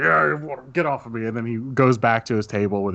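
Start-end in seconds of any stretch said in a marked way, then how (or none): 0.0-1.3 lightly acted grumpy complaint; mock grumble. Game master as drunk pushing player away, mildly grumbling. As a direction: grumble it in character, mildly irritated. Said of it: "he just grumbles".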